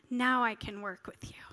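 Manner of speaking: soft whispered voice of God; still small voice. Retold or imitated. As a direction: breathe it gently, barely voiced.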